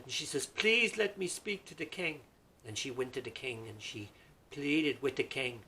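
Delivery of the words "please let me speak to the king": high, loud urgent plea; pleading widow. Acted. Widow begging to see the king, high plea. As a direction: ask in the widow's high anguished voice.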